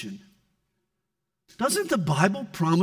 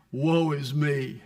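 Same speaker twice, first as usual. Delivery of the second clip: mock lament; 5 semitones lower, slower than usual. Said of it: "he's crying".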